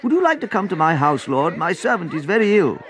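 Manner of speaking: high pleading invitation; calling out. A narrator's reading. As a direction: call from the crowd for help. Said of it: "People in the crowd began calling out".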